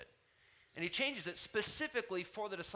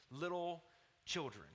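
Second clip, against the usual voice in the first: tender compassion. Acted. Jesus gently addressing his disciples, tender and compassionate. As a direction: say it tenderly, lowering onto "children". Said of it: "In a tender, compassionate tone".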